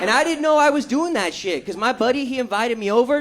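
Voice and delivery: ordinary talk, nothing marked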